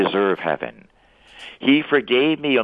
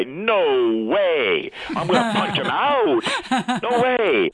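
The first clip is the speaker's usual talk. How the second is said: high, hammed-up protest, slowed on the punch line; mock outrage; 9 semitones higher, much slower than usual. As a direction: play up his own outburst against forgiving. His outraged reply to God.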